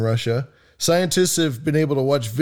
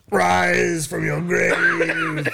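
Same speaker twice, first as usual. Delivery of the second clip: mock spooky; 6 semitones higher, much slower than usual. Spooky movie quote voiced.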